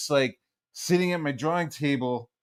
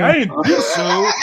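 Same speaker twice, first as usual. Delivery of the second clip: retold triumphant dad; 6 semitones higher, 7 dB louder than usual. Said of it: "he was like".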